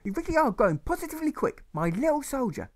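put-on very high, slurred drunken mother voice; a tipsy mother cooing and slurring. Mother dodging her son's question, slurring fondly. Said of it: "his mother had started to slur".

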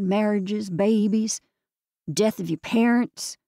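lightly voiced Southern lady, earnest; Southern older woman. Biddy urges sisters to cherish each other, Southern earnest. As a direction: gently lecture the sisters in a Southern voice.

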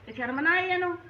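indignant scolding. Acted. Mother rails at her daughter's husband, indignant. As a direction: demand where his shame went.

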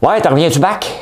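mock the Hull franglais; Gatineau accent. Mocking Gatineau people mixing English, loud Gatineau accent. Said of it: "vous mélangez l'anglais et le français".

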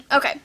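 coughing fit. Real, not acted. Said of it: "I'm sorry I'm coughing so much".

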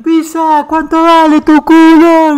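high, loud drawn-out yell from the stands; retold yell. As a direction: shout it up at the box, slow and stretched. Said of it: "los chabones gritan". (grito burlón, agudo, fuerte y lento)

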